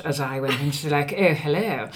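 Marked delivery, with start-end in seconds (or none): 1.2-1.9 prim posh English accent on "Oh, hello.". Shown as a demonstration. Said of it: "improve my Yorkshire accent".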